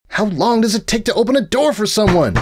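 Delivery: put-on a bright young mare rambling on; cheerful unicorn scholar voice; Twilight voice.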